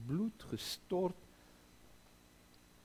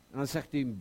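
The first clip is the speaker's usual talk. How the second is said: ordinary delivery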